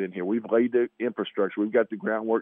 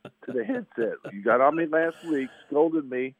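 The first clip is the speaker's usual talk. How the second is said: hoarse voice; 2 semitones higher than usual. Real, not acted. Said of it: "I got this whiskey tenor, nasaled out voice".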